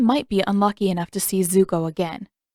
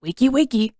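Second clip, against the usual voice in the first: teasing wake-up call; 3 semitones higher, 3 dB louder, faster than usual. Acted. Brother calling his sleeping sister to wake up, teasing sing-song. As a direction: tease her awake with a lilting call.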